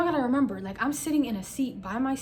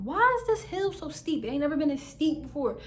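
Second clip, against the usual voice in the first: whiny complaint; 5 semitones higher, 3 dB louder than usual. Retold or imitated. High-pitched whine climbing the steep hill.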